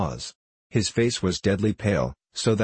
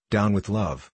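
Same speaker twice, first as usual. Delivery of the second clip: lightly voiced squeaky heckler; a touch of squeaky defiance; high squeaky voice; slower than usual. A narrator's reading. Witherspoon heckles the orator, lightly squeaky. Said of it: "squeaky voice".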